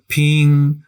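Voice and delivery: ping held level and high in first tone; ping, steady high pitch. Shown as a demonstration. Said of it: "practice that first tone on a ton of different syllables".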